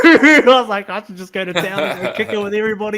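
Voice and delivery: laughing while talking; chuckling through it. Real, not acted. Laughing retelling temptation.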